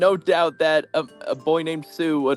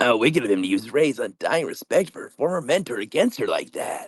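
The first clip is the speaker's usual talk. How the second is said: put-on, acted manly voice; 5 semitones lower, 3 dB quieter than usual. Voicing a game character's line, told to keep it manly: put-on manly voice. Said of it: "you gotta keep a consistent manly voice".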